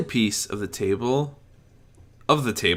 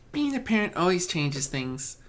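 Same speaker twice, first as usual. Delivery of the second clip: calm reasoning; 9 semitones higher than usual. Acted. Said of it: "she reasoned calmly".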